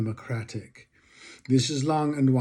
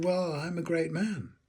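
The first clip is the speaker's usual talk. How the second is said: Churchill; 5 semitones higher, 5 dB quieter than usual. Retold or imitated. Retells Churchill's self-regarding answer.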